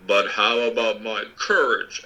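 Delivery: anxious. Acted. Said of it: "asked the Lion anxiously".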